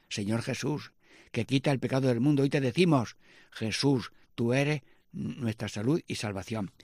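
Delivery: measured prayer leading; prayer petition. Acted.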